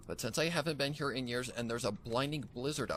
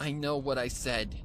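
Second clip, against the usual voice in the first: stern; 3 semitones higher, 3 dB louder than usual. Acted. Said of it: "Frost said sternly".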